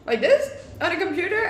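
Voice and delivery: high, questioning mock confusion; clueless gamer. Streamer imagines trying gaming with no idea, mock-clueless questions. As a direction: play yourself lost at the controls. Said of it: "I'd just be there like".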